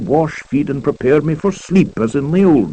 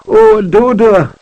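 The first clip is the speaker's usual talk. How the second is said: drawn-out, louder cry of delight; fond cry; 5 semitones higher, 6 dB louder, slower than usual. A narrator's reading. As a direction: call her name out slowly, a little louder, overjoyed. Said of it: "I cried".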